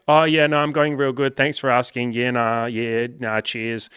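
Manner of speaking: a hint of a relaxed Aussie bloke; cheery local bloke. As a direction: play the calmed-down man, suddenly chirpy. Imitating the screaming man's reply.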